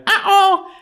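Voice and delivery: very high, loud mock alarm; dismayed uh-oh. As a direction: react in a shrill dismayed uh-oh. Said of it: "and she went".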